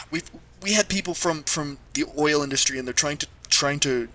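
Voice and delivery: a parent covering panic with sweetness; sugary parent voice. Acted. Parents keep explaining.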